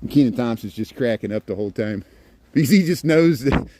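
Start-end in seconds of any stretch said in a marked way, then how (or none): 2.5-3.7 laughing. Real, not acted. Laughing at a staged prank.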